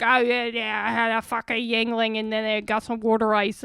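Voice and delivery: imitating an actor's Delco accent; mock Delco accent. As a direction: put on a casual Philly-suburb accent. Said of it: "Delco accents, and every once in a while they hit it".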